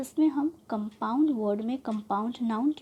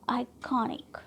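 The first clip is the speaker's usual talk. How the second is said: आइकॉनिक with KON stressed; second-last syllable stressed. Shown as a demonstration. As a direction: lean on 'कॉ' in आइकॉनिक. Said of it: "syllable पर trust कर रहे हैं". (आइकॉनिक में 'कॉ' पर ज़ोर)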